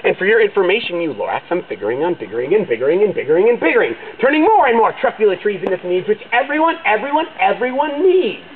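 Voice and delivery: loud, defiant yell; the Onceler yelling back at the Lorax about his rights. A narrator's reading. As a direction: shout him down, stubborn and proud. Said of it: "And I yelled at the Lorax".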